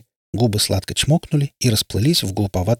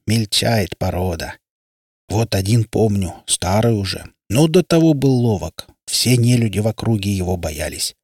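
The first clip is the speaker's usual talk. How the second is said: water spirit. Acted.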